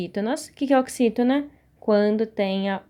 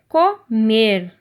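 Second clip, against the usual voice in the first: Comer split in two, MER long and louder; stress on last syllable; 5 dB louder than usual. Shown as a demonstration. Teacher showing pupils the strong syllable, drawn-out stress on MER in Comer. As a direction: break up Comer and lean on MER. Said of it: "a sílaba forte".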